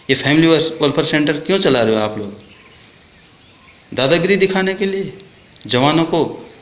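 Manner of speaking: indignant challenge; angry questioning. Real, not acted. Accusing questions at the officers.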